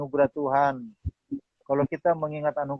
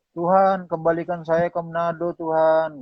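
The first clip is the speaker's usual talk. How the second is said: raised, pleading imitation of crying prayer; mock tearful plea; 4 semitones higher than usual. Homesick worker begging God to send him back, mock tearful. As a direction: plead upward as if half in tears. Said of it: "Sambil nangis-nangis saya bilang".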